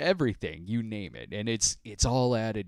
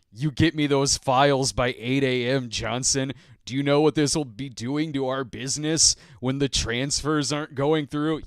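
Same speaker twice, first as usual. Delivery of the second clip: a hint of a barking executive, a touch louder; bossy business call; 4 semitones higher, 5 dB louder than usual. Pretend boss on a fake call demands files from Johnson, mildly bossy. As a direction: play a pushy boss on the phone. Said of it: "pretending to talk like".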